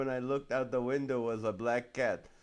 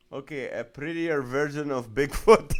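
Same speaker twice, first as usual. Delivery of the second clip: laughing; 6 dB louder than usual. Real, not acted. Reading a funny comment aloud.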